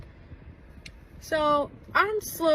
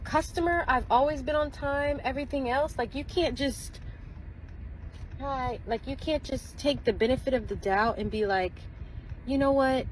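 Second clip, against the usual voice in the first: indignant retelling; 4 semitones higher than usual. Retold or imitated. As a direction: make her case, worked up. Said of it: "I'm like".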